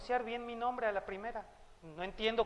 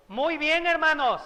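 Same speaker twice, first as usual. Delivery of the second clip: raised, bright praise to the congregation; preacher's praise; 6 semitones higher, 5 dB louder than usual. Real, not acted. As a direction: reward the brothers with an uplifted voice. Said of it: "praising congregation".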